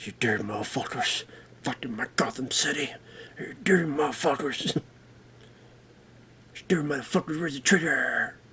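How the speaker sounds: very quiet, hushed, muttered, crude under-the-breath rant. Imagining how Batman would talk using the movie's lines: Batman talking like that. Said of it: "Imagine Batman".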